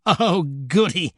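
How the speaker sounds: slow, relishing "oh, goody"; delighted devil squeal. Acted. Devil promised a bloodier story, delighted squeal. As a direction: draw it out with devilish glee. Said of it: "squealed the devil".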